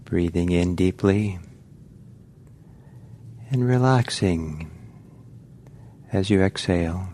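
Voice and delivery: calm, unhurried meditation guiding with long pauses; guided meditation. Real, not acted. Teacher guiding meditators to relax into the body, calm guided meditation. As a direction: ease listeners gently into relaxing, leaving space between phrases.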